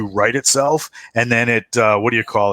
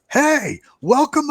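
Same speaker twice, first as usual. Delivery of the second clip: high, bright mock greeting; cocky pilot; slower than usual. Pilot greeting the players as they board. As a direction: toss it off like a cheerful pilot. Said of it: "the pilot is like".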